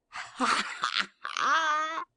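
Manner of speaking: hearty, rising ha-ha-ha; roaring laugh. A narrator's reading. Toby roars with delight at the basket. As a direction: laugh with a kick of joy. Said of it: "roared Toby".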